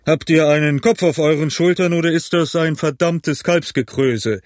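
high, exasperated outburst; calling out. A narrator's reading. Innkeeper berates Morgan, calling out. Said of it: "rief Long John".

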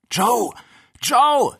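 very high, loud cry of a name; alarmed scream. A narrator's reading. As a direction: scream after someone vanishing. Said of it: "schrie er".

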